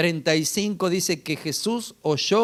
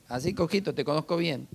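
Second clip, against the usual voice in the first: softer, dismissive imitation of a judging onlooker; mock sizing-up; 2 semitones lower, 6 dB quieter than usual. Preacher mimics people eyeing the believer, softly mock sizing-up. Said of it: "Y te miran así como diciendo".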